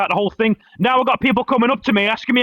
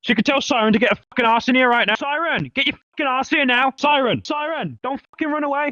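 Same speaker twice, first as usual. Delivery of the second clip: angry; 4 semitones higher than usual. Real, not acted. Angry confrontation, banning Siren.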